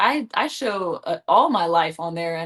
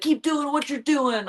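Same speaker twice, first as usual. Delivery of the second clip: put-on Irish accent; 5 semitones higher, slower than usual. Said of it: "Your Irish accent is terrible".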